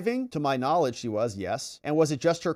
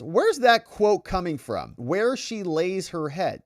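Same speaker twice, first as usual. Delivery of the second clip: mock attorney's challenge, higher and slow; challenging; 4 semitones higher, slower than usual. Defense attorney questioning where a quote came from, challenging. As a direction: demand a source, drawing the words out.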